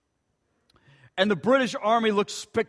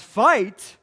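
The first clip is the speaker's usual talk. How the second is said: soldier's scared shout. Acted. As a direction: shout it, then back off. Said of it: "cries out and says".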